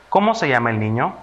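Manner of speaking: "niño" lifted at the end after a dip; question intonation. Shown as a demonstration. Teacher has children guess the sign, asking a quick question. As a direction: ask it briskly, rising on "niño". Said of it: "Es una pregunta".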